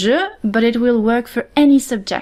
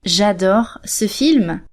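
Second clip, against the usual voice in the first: very slow, careful French; slow model sentence; 2 semitones lower, much slower than usual. Shown as a demonstration. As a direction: say it slowly for the learner. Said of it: "So you could say".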